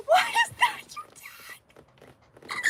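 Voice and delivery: high breathy whisper, slow and drawn out; teasing whisper. Real, not acted. Streamer teasing a viewer over their tag, whispered. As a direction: whisper the question like a secret. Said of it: "teasing chat about a viewer's tag".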